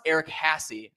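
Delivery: Hassey in two syllables, HASS-ee; remembered name pronunciation. Shown as a demonstration. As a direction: say Hassey with an added "ee". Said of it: "it was pronounced".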